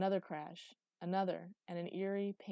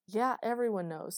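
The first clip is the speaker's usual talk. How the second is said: sharp irritation; 4 semitones higher, 10 dB louder than usual. A narrator's reading. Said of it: "irritation making his voice sharp".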